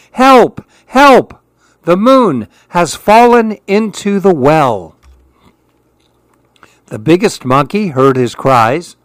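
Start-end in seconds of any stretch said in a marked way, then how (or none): 0.1-5.0 high, loud cry for help; terrified shout. A narrator's reading. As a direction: scream for help in a panic. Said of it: "He jumped back into his tree and shouted".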